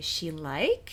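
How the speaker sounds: "like" with rising question intonation. Repeating a student's error to draw attention: rising question intonation on like. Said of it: "Like a question with rising intonation".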